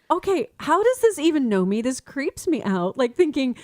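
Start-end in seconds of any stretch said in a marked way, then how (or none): 0.1-1.8 creeped out. Retold or imitated. Her own creeped-out reaction.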